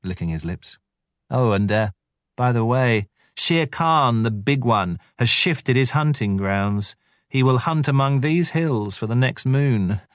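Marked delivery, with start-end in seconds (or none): 1.3-10.0 higher, teasing jackal voice; sly gossiping jackal. Acted. Tabaqui the jackal slyly reporting Shere Khan's move. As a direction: drop the news with mischief.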